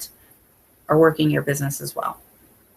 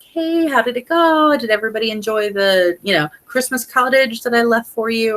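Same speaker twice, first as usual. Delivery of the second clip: bright, much higher, slowed friendly phone voice; cheery check-in call; 5 semitones higher than usual. Retold or imitated. Consultant calling her host after Thanksgiving, bright and high. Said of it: "and be like".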